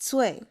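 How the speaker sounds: Cui begun with ts as in cats; ts initial. Shown as a demonstration. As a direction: say Cui with a crisp TS start. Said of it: "C is like T S at the end of cats".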